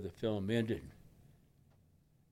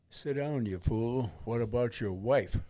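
a mildly raised rebuke; a touch louder, scolding inner voice; inner voice, loud and clear; 4 dB louder than usual. Retold or imitated. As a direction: snap it at yourself as a warning. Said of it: "loud and clear".

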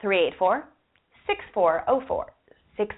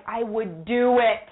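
kind side; slower than usual. Retold or imitated. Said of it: "the nice side of my heart is".

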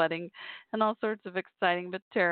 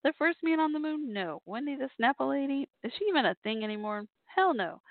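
higher voice as a famous singer; man doing a woman's voice; 6 semitones higher than usual. Retold or imitated. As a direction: play the diva sorting requests. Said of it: "in her French Canadian accent".

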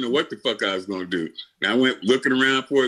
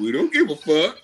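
laughing mock gym staff; 4 semitones higher than usual. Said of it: "They're like".

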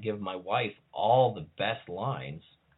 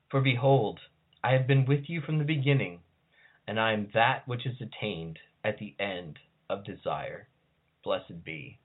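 solemn liturgy reading; 2 semitones higher than usual. Acted. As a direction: proclaim it like a priestess at a rite. Reads liturgy of goddess of death.

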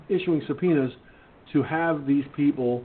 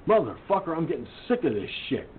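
fed up; faster than usual. Real, not acted. Furious rant at the county.

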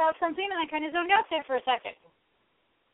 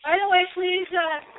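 chewing while talking. Real, not acted. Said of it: "Please excuse the chewing".

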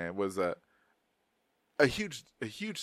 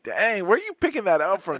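surprised dad; 9 semitones higher, 6 dB louder than usual. Retold or imitated. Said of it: "twang, twang".

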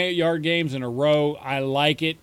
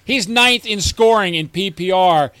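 nerdy rant; 4 dB louder than usual. Pretend. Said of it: "I'm getting into my nerd voice".

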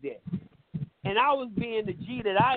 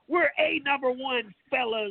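lightly put-on white guy voice, higher and slow; a hint of a square white guy, drawn out; mock white voice; 4 semitones higher, slower than usual. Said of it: "Now I gotta put my white voice on".

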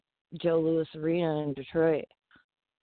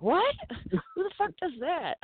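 incredulous quote; 10 semitones higher than usual. Retold or imitated. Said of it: "And he's like".

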